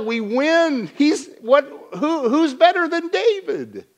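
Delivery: high-pitched, exasperated pleading for David; incredulous defence. Retold or imitated. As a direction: talk sense into the king like a buddy. Ahimelech voiced defending David to Saul.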